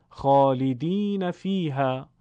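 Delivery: خالدین فیها slowly and clearly; recited example. Shown as a demonstration. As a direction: read خالدین فیها carefully with long ee. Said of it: "شبیه خط فارسی".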